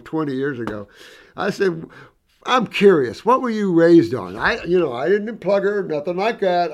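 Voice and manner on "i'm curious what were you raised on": eager question. Retold or imitated. Asking old woman eagerly.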